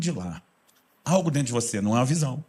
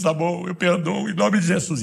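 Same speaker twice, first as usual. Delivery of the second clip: mock tearful surrender; 5 semitones higher, slower than usual. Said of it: "você se encontra chorando".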